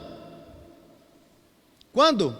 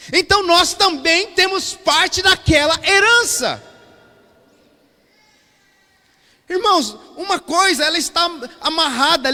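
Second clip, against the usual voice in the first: loud, higher preaching voice; emphatic preaching; 5 semitones higher, 8 dB louder than usual. Real, not acted. Pastor explains the shared inheritance to his church, emphatic preaching. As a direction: preach it out with force.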